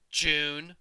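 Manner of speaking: a hint of a rough, growly girl; deep growly voice. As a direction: growl the name like a tough kid. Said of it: "She had a deep, growly voice".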